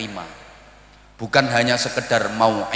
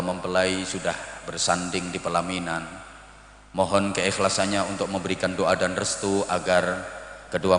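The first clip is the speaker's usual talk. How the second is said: low, soft, even formal MC voice; solemn master of ceremonies, hushed and low; wedding MC; 6 semitones lower, 6 dB quieter than usual. Acted. MC addressing wedding guests before the couple, solemn and low. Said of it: "kemudian M C-nya ngomong".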